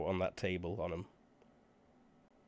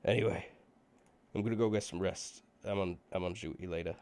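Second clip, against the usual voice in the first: put-on Valley Girl accent; faster than usual. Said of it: "says the Valley Girl".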